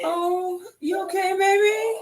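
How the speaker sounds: high, startled worried voice; alarmed concern. Real, not acted. Grandson fell, she rushes over.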